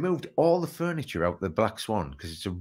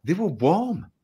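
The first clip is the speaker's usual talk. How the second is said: laughing disbelief; 8 semitones higher, 6 dB louder than usual. Real, not acted. Laughing retelling of warm books.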